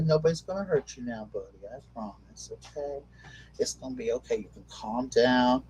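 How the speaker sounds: soft, hushed reassurance to a frightened dog; quiet promises, slowing right down; reassuring pet. Real, not acted.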